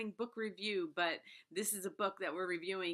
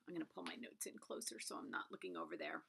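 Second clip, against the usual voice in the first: whisper; 10 dB quieter than usual. Real, not acted. Aside while moving notes.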